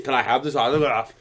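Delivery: mock Austrian accent, quick requests; Arnold Schwarzenegger. Fan asking for an autograph, imitating Austrian accent. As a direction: ask placatingly in a put-on Austrian accent. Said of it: "I'm gonna imitate them".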